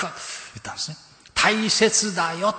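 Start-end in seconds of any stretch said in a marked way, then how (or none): 1.3-2.5 slow and loud, higher, pressing the point home; emphatic. Real, not acted. Preacher stressing to the congregation, slow loud emphasis. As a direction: lean hard on every word, slowly. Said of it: "preacher stresses point".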